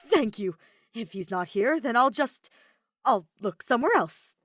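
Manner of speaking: high, loud and hurried; flustered panic. Acted. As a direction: babble your way out in a panic. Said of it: "with a panicked laugh".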